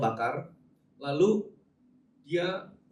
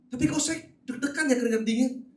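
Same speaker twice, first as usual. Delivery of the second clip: pitched higher, jittery mock panic; mock nervous; 8 semitones higher than usual. Preacher mimics a jittery churchgoer, mock nervous and higher. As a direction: play the anxious congregant for laughs.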